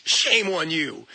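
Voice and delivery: slow reproach, pitch dropping low; mock scolding. Shaming a porn watcher, mock scolding.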